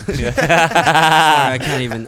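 laughing through burning tears; choked up from spicy vodka; tearing up from spice. Real, not acted. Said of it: "I'm fucking tearing up".

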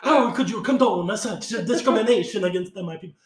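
loud, high-pitched indignant protest; hammed-up offended politician; mock outraged candidate. Acts outraged candidate in invented debate.

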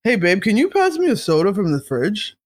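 lazy couch slob; lazy boyfriend voice. Retold or imitated. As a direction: call lazily from the couch. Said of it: "just being on some, like".

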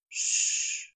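gentle, unvoiced shush; hushing. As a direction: hush someone tenderly. Crowley hushes Aziraphale.

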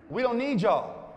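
high, drawn-out brush-off; mild mock dismissal. Shown as a demonstration. Cool people rebuff the others, mildly dismissive. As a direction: pretend you can do without them. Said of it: "Say it like you mean it".

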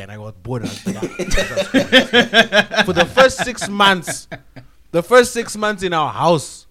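laughing through the words. Real, not acted. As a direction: laugh while telling it.

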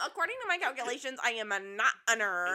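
put-on nerdy protest, quick then emphatic; mock nerd voice. Host mocks a contestant denying he is a nerd, mock nerd voice. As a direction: imitate an indignant know-it-all nerd. Mocking a nerd's comeback.

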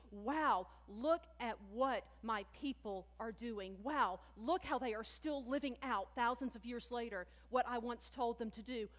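voicing Jesus lightly marveling at his people; preacher imagining Jesus's amazed joy; mock delighted wow. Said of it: "And by surprise, I mean".

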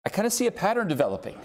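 laughing through it. Retold or imitated. Fourth brother voiced, laughing.

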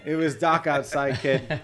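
hammed-up Rhode Island accent, dark as dahk; playful Rhode Island accent. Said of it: "Rhode Island accent coming out".

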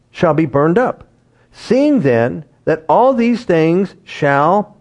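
steady King James reading; scripture reading. Acted. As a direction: read the passage aloud to the congregation.

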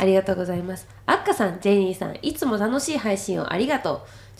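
stuffy, blocked-nose voice; nasal voice. Real, not acted. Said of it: "私、鼻声なんだけど".

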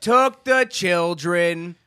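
slow, drawn-out put-on cartoon voice; exaggerated cartoon intonation. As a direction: stretch each word in a goofy sing-song. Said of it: "Why are you talking like that?".

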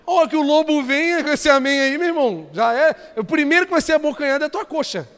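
high, loud pulpit warning. Real, not acted. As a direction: warn them forcefully, voice lifted.

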